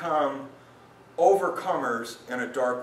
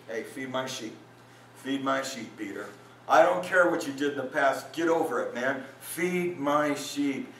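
gentle Jesus; 3 semitones lower than usual. Retold or imitated. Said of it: "he kept on saying".

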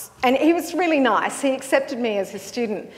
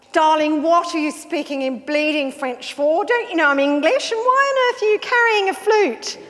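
a lightly voiced camp English young man, the last question flying much higher; camp Englishman; 5 semitones higher than usual. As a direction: tease like a theatrical Londoner, mild at first and then shooting up. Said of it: "I stopped a young man".

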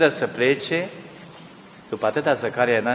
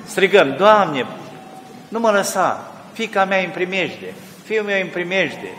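fervent preaching; 3 semitones higher than usual. Acted. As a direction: preach it with urgency. Preacher's sermon opening, fervent.

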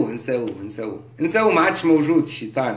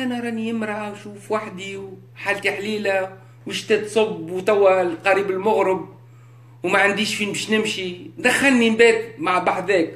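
soft, pleading stranger at the door; a lightly voiced woman begging for shelter; 3 dB quieter than usual. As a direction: beg quietly to be let in.

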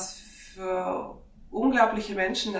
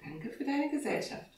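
higher, softer thanks to a pet; talking to dog; 6 semitones higher, 6 dB quieter than usual. Real, not acted. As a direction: thank your dog in a high, soft voice.

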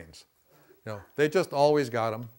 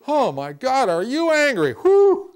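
high, loud, wide-eyed "oh my God"; mock amazed exclamation; 12 semitones higher, 11 dB louder, slower than usual. Shown as a demonstration. Counselor demoing the bullfighter dodge to an angry person, loud mock amazement. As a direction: play it big and surprised, like dodging a bull. Bullfighter greeting the charging anger.

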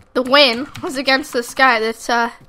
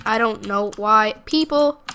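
slow, flat robot-like words; accidental robot voice mid-sentence; robotic; slower than usual. Real, not acted. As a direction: sound like a robot reading it. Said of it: "I sounded like a robot there".

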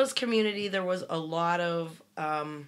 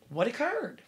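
son's voice pitched higher, "occurred" falling at the end; imitating son; 6 semitones higher than usual. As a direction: repeat the son's line in a lifted mock voice. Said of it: "my son says".

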